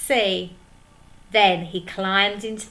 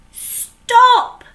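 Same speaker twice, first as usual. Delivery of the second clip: much higher, much louder command; shouted stop; 14 dB louder than usual. Acted. Handkerchief stopping the pirates, shouting. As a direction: halt everyone with one word. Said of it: "said Handkerchief".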